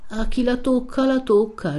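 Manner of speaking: a hint of a witless, silly reply; simpleton's refrain. A narrator's reading. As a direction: parrot it with a touch of foolishness. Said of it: "con un certo sorriso sciocco".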